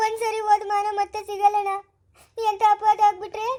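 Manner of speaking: acted tearful plea, voice breaking into sobs; tearful crying. Accused girl sobbing to her brother-in-law, tearful plea. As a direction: cry through the protest of innocence. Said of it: "ಅಳ್ಬೇಡ".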